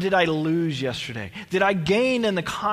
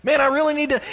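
higher, louder exasperated sigh of a line; mock procrastinator; 7 semitones higher, 5 dB louder, much faster than usual. Preacher mimicking a believer who never starts, higher exasperated whine. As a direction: groan it like someone who keeps putting it off.

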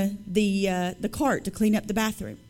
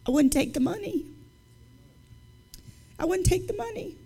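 earnest vow; 8 semitones higher, 5 dB quieter than usual. Real, not acted. Emphatic vow to the congregation.

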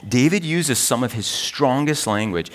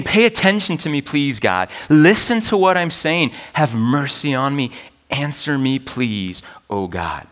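desperate plea; 3 semitones higher than usual. Retold or imitated. David crying out to God, desperate pleading. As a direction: beg God to listen. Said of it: "You can hear the desperation in David's cry here".

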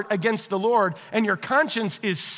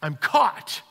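mock panic; 4 semitones higher, much slower than usual. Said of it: "that panic-stricken face".

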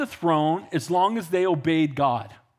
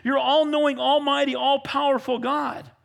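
higher, earnest praise; crying out; 6 semitones higher than usual. Acted. Solomon before the crowd, crying out God's praises. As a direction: plead upward, naming God's greatness. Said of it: "And he's crying out".

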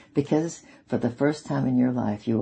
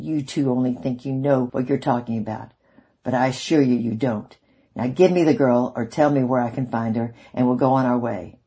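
snide; 5 dB louder than usual. Acted. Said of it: "with a snide voice he said".

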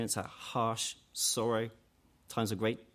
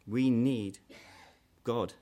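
emphatic preaching; 5 dB louder, slower than usual. Real, not acted. Preacher drives home the point.

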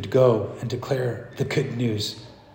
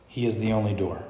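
lower, softer careful statement; hushed claim; 4 semitones lower, 5 dB quieter, faster than usual. Acted. Preacher voices the hard thing to say, hushed. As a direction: say it low, as something daring. Dared claim, said softly first.

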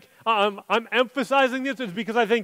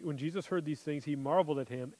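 much softer, almost to himself; hushed rereading; 6 semitones lower, 13 dB quieter than usual. Shown as a demonstration. Preacher quietly rereading the verse to the congregation, hushed. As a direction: drop the voice right down, reflective.

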